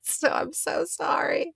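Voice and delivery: high, slow unvoiced whisper; breathy whisper. Real, not acted. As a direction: whisper an over-the-top apology. Playful apology whisper.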